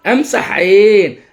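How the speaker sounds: أمسح عين said slowly with long vowels; drawn-out practice phrase; slow repetition. Shown as a demonstration. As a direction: repeat أمسح عين carefully, stretching it. Models child's repetition of phrase.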